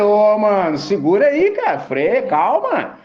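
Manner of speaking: loud, high, urgent plea to hold on; mock panicked shout. Preacher voicing himself in the storm, shouting high and loud. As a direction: yell over the storm for them to calm down. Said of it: "Eu falei".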